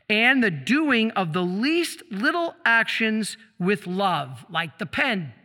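slow, deliberate reading of a saint's words; devout slow reading. Acted. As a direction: let each phrase land, unhurried. Reads saint's diary slowly aloud.

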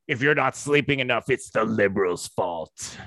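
mock Joe Rogan. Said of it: "who will be like".

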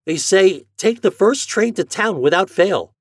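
put-on high, loud boy relaying urgent orders; excited reading aloud. Boy reading the telegram to mother, excited. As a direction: read out the summons urgently.

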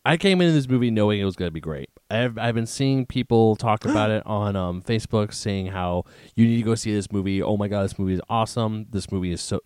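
talking around an ice cube; ice in mouth. Real, not acted. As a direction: speak while crunching ice. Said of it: "As I'm chewing an ice cube".

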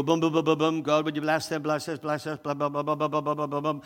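hurried mock prayer list; mock rattled prayer. Believer reeling off a shopping-list prayer, mock hurried. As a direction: rattle it off without meaning it. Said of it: "we've just rattled off our list".

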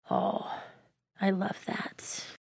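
soft, slow, breathy sigh; hushed appreciation. Real, not acted. Speaker savouring a passage just read aloud, hushed appreciation. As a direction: let it out slowly, almost whispered.

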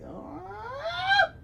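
sudden high yelp; startled yelp. Real, not acted. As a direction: jump in fright. Startled cry mid-narration.

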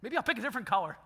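the flesh urging a sneaky return of the broken item; tempting flesh. Retold or imitated. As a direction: play the greedy inner voice cajoling. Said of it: "And my flesh is like".

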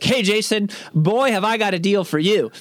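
hammed-up pitch of a fancy financial advisor; sleazy salesman. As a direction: sell it like a too-good deal. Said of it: "fancy financial advisor".

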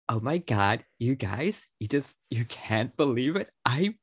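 a light precious gushing starlet voice; lightly voiced breathless celebrity gush; Drew Barrymore. Showing how the actress talks, a mild gushing impression. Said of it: "I like doing Drew Barrymore".

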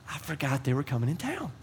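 hushed 'oh no' to yourself; dismayed realization. Acted. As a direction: say it small, as if just remembering. Realizing forgotten guest, groaning to self.

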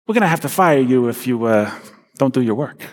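put-on light Bronx accent, boss giving a warning. Boss from the Bronx warns Nathan he'll be fired, in Bronx accent. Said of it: "he kinda talks like this".

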